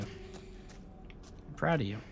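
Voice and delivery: slow breathy whisper. Acted. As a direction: whisper it very slowly, drawn out.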